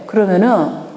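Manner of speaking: usual speaking voice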